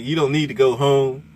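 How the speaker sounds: high, loud excited sales pitch; imitating the trucker. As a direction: hype it up like the trucker on the radio. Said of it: "he was like".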